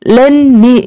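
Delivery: "let me" with the t turned to n, like "len me"; nasalized let me. Shown as a demonstration. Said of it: "이 트 발음이 안 나도요". ("let me"를 '렌 미'처럼 ㄴ받침으로)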